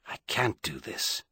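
breathy hushed whisper; barely voiced, to himself. A narrator's reading. Inner despair, thinking aloud.

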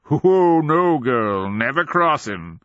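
high, loud oh easing into warning; conspiratorial old-man warning; gleeful old man. A narrator's reading. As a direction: crow it like a mad old man.

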